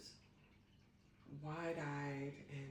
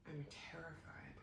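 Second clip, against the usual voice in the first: hushed, breathless whisper of fear; whispered terror; 3 dB quieter than usual. Retold or imitated. Grieving husband Eli to the hospice worker, frightened whisper. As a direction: breathe it out like a scared confession. Grieving man's silent plea voiced.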